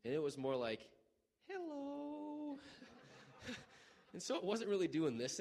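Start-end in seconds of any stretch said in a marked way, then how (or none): 1.5-3.6 high squeaky greeting from the foot; silly ankle voice. Pretend. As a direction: give the ankle a tiny high voice.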